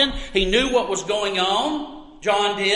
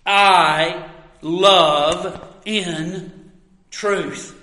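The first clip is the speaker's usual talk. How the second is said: "I" drawn out and leaned on, whole phrase very slow; slow emphatic "I love in truth." with the weight on "I"; stress on I; 3 dB louder, much slower than usual. Shown as a demonstration. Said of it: "the emphasis is, is on the word I".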